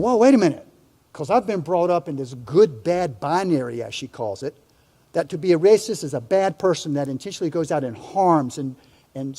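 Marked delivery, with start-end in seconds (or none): 0.0-3.8 taken-aback protest. Retold or imitated. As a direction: push back startled, then explain. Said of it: "And I'm going".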